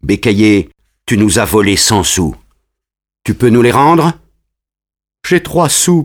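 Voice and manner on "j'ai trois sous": higher, tearful plea; lightly acted tearful boy; mock crying. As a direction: whimper it out like a caught child. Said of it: "pleure Bécaillé".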